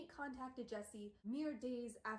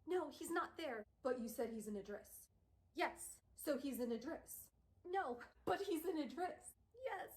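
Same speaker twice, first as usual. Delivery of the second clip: exasperated back-and-forth; 4 semitones higher than usual. Retold or imitated. Circular interrogation acted.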